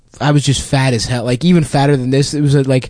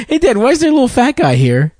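put-on higher, curious little-boy voice, laughing through it; imitating a little kid; 10 semitones higher, faster than usual. Comic retelling the gym toddler asking his dad, kid voice. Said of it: "He was like".

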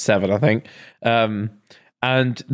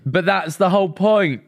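emphatic; 5 semitones higher than usual. Real, not acted. Defending the ad, higher, slower.

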